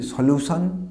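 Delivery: সলিউশন as "so-lu-saan", full last vowel; common mispronunciation. Shown as a demonstration. Teacher showing what learners say, সলিউশন as "solusaan". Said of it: "This is not solution".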